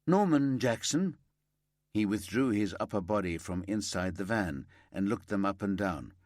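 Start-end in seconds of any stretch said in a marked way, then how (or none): 0.0-1.2 calling out. Acted. Detective calls name to confirm.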